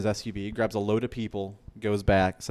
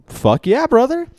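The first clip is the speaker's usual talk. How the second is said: much higher, loud "Fuck yeah, brother"; eager yes; 13 dB louder than usual. Retold or imitated. Accepting the general's offer, excited whoop.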